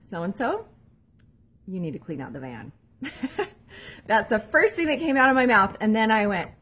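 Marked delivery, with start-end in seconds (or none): 0.1-2.7 curt mom order. Retold or imitated. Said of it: "I said to her".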